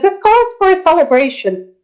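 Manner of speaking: high-pitched gleeful character voice. Acted. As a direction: announce it with delighted glee. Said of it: "claps her hand with glee and says".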